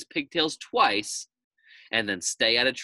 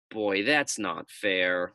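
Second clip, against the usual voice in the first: whine; 3 semitones lower, much slower than usual. Acted. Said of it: "whined the pigtail".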